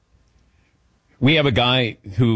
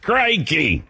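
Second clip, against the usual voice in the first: higher, playful exclamation; mock amazement; 5 semitones higher than usual. Host trying out the Aussie exclamation, mock amazement. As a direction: let it ring out as pretend shock. Demonstrating the exclamation just defined.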